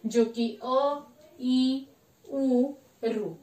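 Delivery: short vowels listed slowly, one by one; listing short vowels. Shown as a demonstration. Teacher naming the four short vowels to students, slowly. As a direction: spell out each vowel for the class. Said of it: "वो लघु स्वर चार है".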